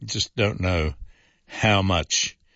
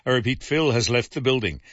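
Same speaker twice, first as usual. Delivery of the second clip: higher-pitched, light attempt at a Las Vegas accent; a hint of Las Vegas accent, pitched up; 6 semitones higher than usual. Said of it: "in my best Las Vegas accent".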